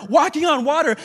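ordinary talk, nothing marked

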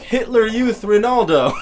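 mock Hitler exclaiming. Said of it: "and he's like".

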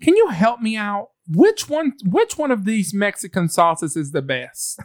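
a light take on a shopper's plea; imitating the lady. Retelling the shopper asking which sauce, lightly voiced. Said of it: "And she was like".

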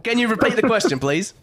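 put-on botched British accent veering Australian; Australian-sounding English accent. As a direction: attempt posh English, land nearer Australia. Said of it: "That sounded Australian".

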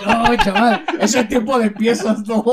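loud laughing stall vendor; singsong market price calls. Retold or imitated. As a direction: brush off a customer, hawker style. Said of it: "Meave market stall sellers". (vendedor de plaza, fuerte y riendo)

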